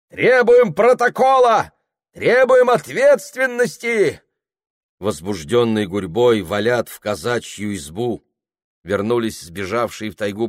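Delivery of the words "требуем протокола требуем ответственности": high, loud chanted demands; crowd demanding. Acted. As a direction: insist on a report.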